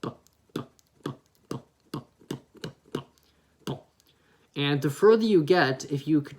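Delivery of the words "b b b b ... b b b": B, B, fading until almost no voice; B with no vowel. Shown as a demonstration. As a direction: squeeze the vowel out of each B. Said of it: "eliminate any vocals in that sound completely".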